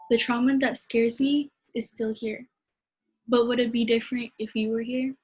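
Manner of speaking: measured, heartfelt poem reading; poem recitation. Acted. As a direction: read it like a spoken-word poem. Poetry reading at open mic.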